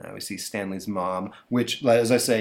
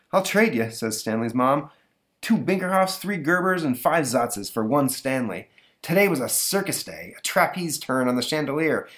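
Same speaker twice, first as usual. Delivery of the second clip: wry mom; 4 semitones higher than usual. Acted. Mother voiced.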